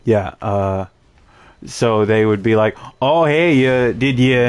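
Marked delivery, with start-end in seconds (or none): 3.0-4.5 lightly hammed-up Canadian accent; friendly cartoon Canadian accent; stereotypical Canadian. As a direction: mimic a stereotypical Canadian saying hello. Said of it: "being stereotypes of Canadians".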